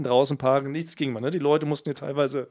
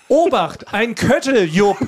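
high, louder mock warning shout; retold warning call; 3 semitones higher, 3 dB louder, slower than usual. Warning colleagues about droppings, called out high and loud. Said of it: "Ich rief".

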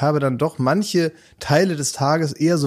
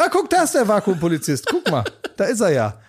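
laughing; 5 semitones higher than usual. Real, not acted. Laughing at the imagined scene.

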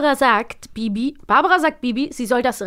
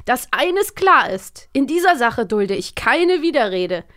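stern father; slower than usual. Retold or imitated. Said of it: "Bernhard Blocksberg ... entgegnet er".

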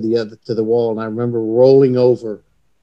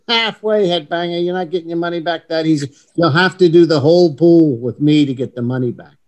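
a light, higher-pitched imitation of an English accent; 4 semitones higher, 3 dB louder than usual. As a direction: tease him in a lightly mocked English accent. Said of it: "his perfect English accent".

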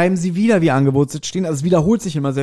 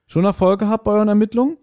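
sour smile; 6 semitones higher, faster than usual. A narrator's reading. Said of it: "Er lächelte säuerlich".

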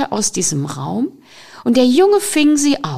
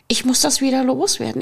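rising panic; 3 semitones higher, faster than usual. Acted. Fear repeats it more urgently.

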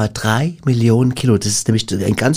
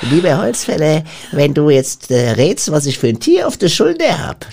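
nasty witch; 2 semitones higher than usual. Retold or imitated. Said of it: "so richtig so eine fiese Hexe".

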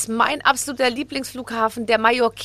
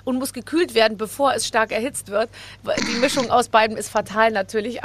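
ordinary delivery

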